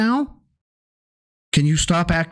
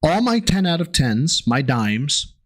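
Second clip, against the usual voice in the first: mock explaining. Shown as a demonstration. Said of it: "I'm whiting this up for you".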